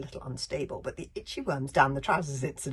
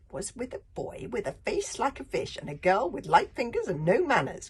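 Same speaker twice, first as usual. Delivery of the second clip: higher, nasty villain voice; librarian voice; 7 semitones higher, 7 dB louder than usual. Acted. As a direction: list the culprits with spite. Librarian continues accusing.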